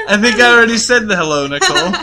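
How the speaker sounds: laughing loudly through the words. Real, not acted. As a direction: laugh while you tease her. Laughing, teasing co-host over hello.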